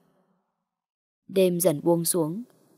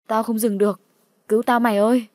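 cry for help; 2 semitones higher, 5 dB louder than usual. Acted. Friend cries for help.

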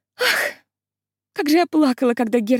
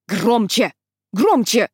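barking command; 4 dB louder, slower than usual. Acted. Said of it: "гаркала".

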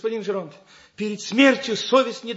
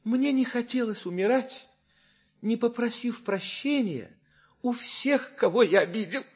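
feigned dying voice; 4 dB quieter than usual. Acted. Dying Scapin asks forgiveness.

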